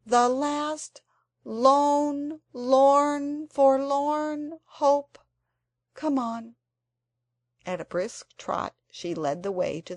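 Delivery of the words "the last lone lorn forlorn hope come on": hammed-up tragic lament, slow and higher; dramatic. A narrator's reading. Anthea dramatically rallies the others, mock tragic. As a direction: savour each gloomy word like a stage heroine. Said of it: "cried Anthea dramatically".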